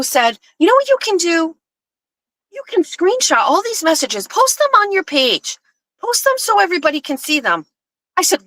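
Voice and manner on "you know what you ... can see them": high-pitched imitation of a demanding caller; retold taunting dare, pitched high; mimicked challenge. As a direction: goad them, imitating in a raised pitch.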